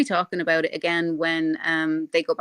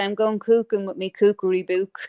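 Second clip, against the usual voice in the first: mock northern accent. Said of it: "I used to do that to my daughter".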